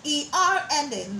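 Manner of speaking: cheerful laughing intro; light laugh. Real, not acted. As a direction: say it with a little laugh. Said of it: "Are you ready to say it right".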